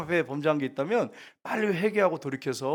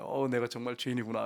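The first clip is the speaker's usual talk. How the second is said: imitated contrite murmur, softer; humble admission; 3 semitones lower, 6 dB quieter than usual. What the woman should confess to Jesus, humble. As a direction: voice a humbled sinner, softly. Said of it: "이렇게 하면서 겸손해야 되잖아요".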